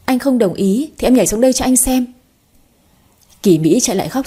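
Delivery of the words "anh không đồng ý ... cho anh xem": a lightly raised, higher threat; mild shout. Acted. Girl threatens to jump, mild mock shout. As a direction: narrator hints at a shout, not full force. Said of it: "hét lớn".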